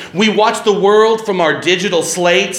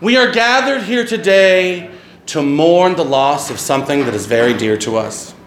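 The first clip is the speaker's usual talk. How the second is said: mock solemn eulogy. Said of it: "is satire".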